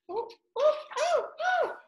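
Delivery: high, startled little cries; a sudden alarmed oh oh; surprised oh. Real, not acted. Reader catching a page skipping, startled. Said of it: "trying to skip a page here".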